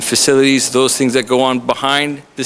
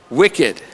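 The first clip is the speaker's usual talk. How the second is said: "wicked" stated plainly as the right word; stress on wicked. Shown as a demonstration. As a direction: land "wicked" firmly as the answer. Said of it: "That's the adjective to use".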